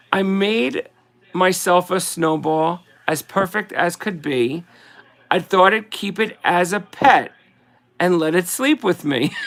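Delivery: slow, sing-song verse reading; slow Christmas card recital; poem reading. Acted. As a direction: read it like a greeting card poem, unhurried. Reads Silverstein poem aloud.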